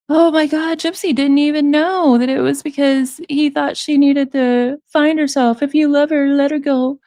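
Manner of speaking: mock gushing TV voice. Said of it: "kind of thing".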